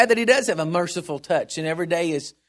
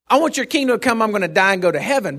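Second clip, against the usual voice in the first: wrong kind of prayer; 3 semitones higher, 3 dB louder, faster than usual. Shown as a demonstration. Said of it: "Not, not, not".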